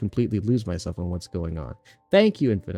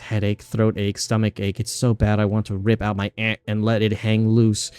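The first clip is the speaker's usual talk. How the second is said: a lightly voiced girl in pain, rising louder; tormented girl; 4 dB louder than usual. Streamer reading a cursed girl's lines, a touch of agony. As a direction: list each ache like it's eating her alive.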